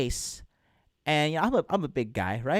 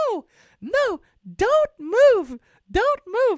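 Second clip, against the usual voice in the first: put-on feminine voice trying to be aggressive, higher, louder; 7 dB louder than usual. Retelling a woman wrestling and pinning someone down: Sakiko's very feminine voice trying to sound aggressive. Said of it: "She was like this very feminine voice, but she was, like, trying to get aggressive".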